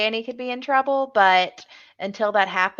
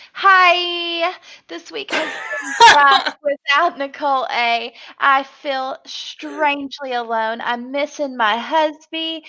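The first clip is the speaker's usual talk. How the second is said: whiny Kevin impression; 5 semitones higher, 3 dB louder than usual. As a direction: whine it out like a sulky houseguest. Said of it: "you can just hear him in his whiny little voice".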